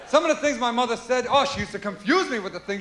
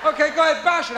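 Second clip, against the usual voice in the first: put-on obedient child; 4 semitones higher than usual. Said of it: "we are dumb when we're children".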